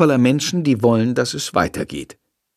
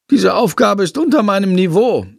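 haughty bat; 8 semitones higher than usual. Acted.

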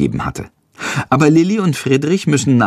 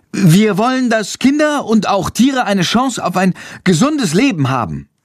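trembling voice; 9 semitones higher than usual. A narrator's reading. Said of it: "seine Stimme zittert".

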